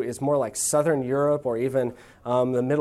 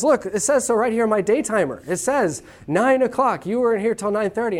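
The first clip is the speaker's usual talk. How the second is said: indignant German Nathan; 5 semitones higher than usual. Pretend. Nathan showing his day timer to the Italian, higher and indignant. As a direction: insist the planner proves it. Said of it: "He says".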